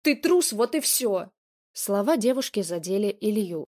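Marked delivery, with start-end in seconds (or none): 0.0-1.3 much higher and louder, contemptuous yell; angry shout. Acted. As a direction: hurl the insult at him. Shouting continues in quarrel.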